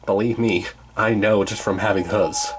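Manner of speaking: a hint of the satyr, unimpressed by the bars; Grover voice. Satyr grumbles about cattle guards to friends, lightly voiced.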